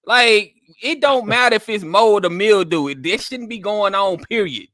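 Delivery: loud, high disbelief; exasperated, loud and high; incredulous outrage. Real, not acted. Outraged reaction to excuse.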